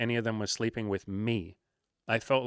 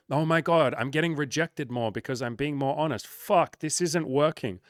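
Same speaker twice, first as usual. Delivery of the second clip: dismayed guys; 3 semitones higher than usual. Acted. Guys reacting to more rejection, mock dismay. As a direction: act out a rejected guy's mild panic. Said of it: "at first guys will go".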